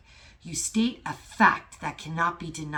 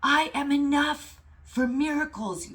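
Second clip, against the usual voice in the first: loud, high, slow declaration from the chest; roaring; 9 semitones higher, 5 dB louder, slower than usual. Real, not acted. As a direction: roar it like a lion. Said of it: "That's how I feel right now".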